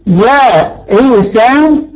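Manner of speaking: يائسة stretched very slowly, each syllable drawn long; slow teacher's model of يائسة. Shown as a demonstration. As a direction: draw out يائسة syllable by syllable for the class. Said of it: "عفوًا، يائسة".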